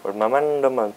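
badly faked Italian accent; clumsy, half-hearted Italian accent; failed Italian accent. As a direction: attempt an Italian accent and miss. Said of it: "I can't do an Italian accent at all".

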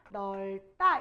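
넓다 said as "neol-tta", deliberately; pronunciation demo. Shown as a demonstration. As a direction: keep the ㄹ in 넓다, tense "tta". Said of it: "이렇게 발음할 거예요".

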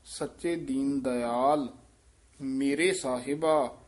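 slow recitation with a held pause after ਮੇਰੇ ਸਾਹਿਬਾ. Shown as a demonstration. Teacher showing the student where to pause, slow careful recitation. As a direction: say ਸੱਚੇ ਦੀਨ ਦਇਆਲ ਮੇਰੇ ਸਾਹਿਬਾ, then rest. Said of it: "ਇੱਥੇ ਵਿਸਰਾਮ ਹੈ".

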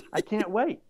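high mock-cheery yay, with a laugh; sarcastic yay. Mocking his own reply to Francis, high sarcastic cheer. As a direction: fake delight that drips irony.

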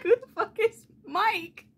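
high, bewildered laughing question; incredulous. Real, not acted. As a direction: ask it in baffled disbelief. Mocking the book's exclamation.

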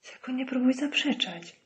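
Brody bitterly warns the prisoner not to deny. A narrator's reading. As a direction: warn him with bitterness. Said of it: "odparł z goryczą Brody".

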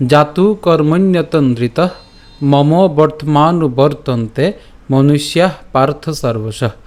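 slow, measured Sanskrit verse recitation; shloka recitation. Shown as a demonstration. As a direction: recite the verse slowly, pausing after each phrase. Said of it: "আজকের শ্লোকটি হলো". (ধীরে স্পষ্ট উচ্চারণে শ্লোক পাঠ)

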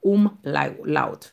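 omlaut drawn apart into syllables; careful German pronunciation. Shown as a demonstration. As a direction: sound out omlaut slowly for learners. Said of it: "la, se gè dyalèk la". (omlaut byen separe)

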